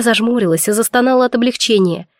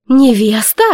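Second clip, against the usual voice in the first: exclaiming; 4 dB louder, slower than usual. Acted. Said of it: "воскликнула мама".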